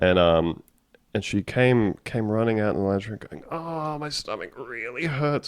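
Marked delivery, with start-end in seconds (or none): 3.5-5.5 high, aching, pained voice. Retelling a child running in with a stomach ache: imitating someone in pain. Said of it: "she sounded like she was in pain".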